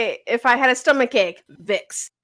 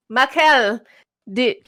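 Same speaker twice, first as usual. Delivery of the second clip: put-on Filipino mom accent; 2 semitones lower than usual. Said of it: "I can't hold my mom's accent".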